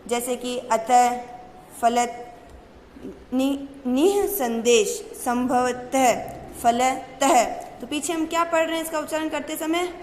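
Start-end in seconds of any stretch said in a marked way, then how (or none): 0.6-7.4 अतः, संभवतः, फलतः said slowly with a breathy ह sound at the end; slow down and let the final ह be heard; visarga demo. Shown as a demonstration. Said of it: "तब तो हम है बोलेंगे". (विसर्ग को धीरे से 'ह' की तरह बोलना)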